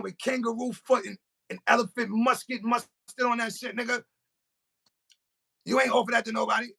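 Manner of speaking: high-pitched, incredulous comic scolding; mock outrage. Scolding a homeboy over an unshared sandwich, high mock outrage.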